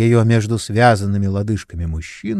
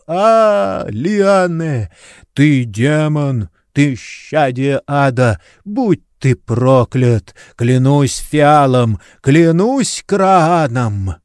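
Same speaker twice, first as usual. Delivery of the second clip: higher, louder hysterical cursing, drawn out; louder, slow, high hysterical wail; terrible screaming; 4 semitones higher, 4 dB louder, slower than usual. A narrator's reading. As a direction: curse the bandit in a frenzy of grief. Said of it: "страшно кричал".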